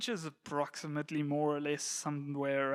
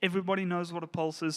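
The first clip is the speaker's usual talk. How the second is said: quick and simple; 2 semitones higher, faster than usual. Shown as a demonstration.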